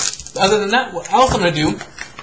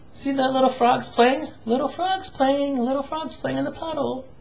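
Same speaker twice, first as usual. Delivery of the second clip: put-on singsong for a child; 5 semitones higher, slower than usual. Pointing out frogs to child.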